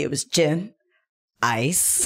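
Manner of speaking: teasing echo of a friend's answer, deadpan drop at the end; mock repeat. Friend mocking the fancy gin drink, teasing echo. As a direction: parrot it back to poke fun. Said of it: "Did you say it's really fancy?".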